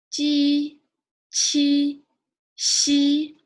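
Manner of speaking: teacher leading a pinyin drill; Mandarin initials drill. Shown as a demonstration. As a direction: call out Bo, po, mo, fo crisply for repetition. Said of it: "we'll say it one more time from here".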